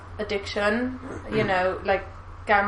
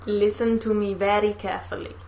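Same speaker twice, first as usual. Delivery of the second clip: a tentative copy of a Russian accent, a little softer; copied Russian accent; 5 dB quieter than usual. Shown as a demonstration. Friend copying the villain line, tentative Russian accent. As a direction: try to echo the Russian accent. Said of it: "say it line by line so I can copy you".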